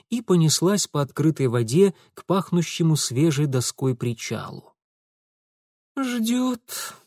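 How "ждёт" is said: a weary, longing sigh of a word; wistful sigh. A narrator's reading. Lidia sighing sadly as the boat nears. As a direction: sigh it out, sad and soft. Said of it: "тоскливо вздохнула Лидия".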